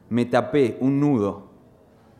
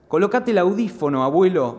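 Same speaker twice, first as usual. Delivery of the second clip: imagined shout; 6 semitones higher, faster than usual. Retold or imitated. Grandson yelling at deaf grandfather to wear his hearing aid, urgent shout. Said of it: "grito, pienso".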